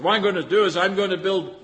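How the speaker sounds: loud, high, gloating planner; a greedy farmer bragging loudly about his barns; boastful rich farmer. Acted. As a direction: crow about bigger barns. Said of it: "He said".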